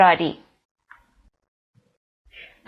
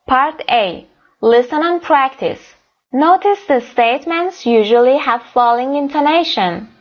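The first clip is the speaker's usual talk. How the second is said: slow reading; 3 semitones higher, much slower than usual. Shown as a demonstration. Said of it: "teacher reads instruction slowly".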